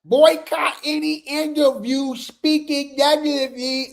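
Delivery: lightly voiced mock-solemn fan; put-on fan voice. Shown as a demonstration. Rereading the flyer to viewers, in a lightly put-on fan voice. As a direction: redo it in the mocking voice. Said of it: "My bad".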